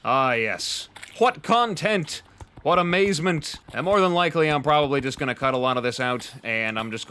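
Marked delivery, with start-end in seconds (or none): 0.1-3.6 sarcastic. Acted. Mock praise of boring arena building.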